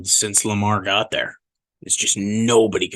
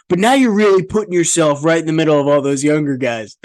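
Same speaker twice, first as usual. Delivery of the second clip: lightly mimicked eager TV interviewer, pitched up; higher-pitched mock enthusiasm, imitating an interviewer; gushing interviewer; 5 semitones higher than usual. Host imitates broadcasters interviewing Aaron Rodgers, mock gushing.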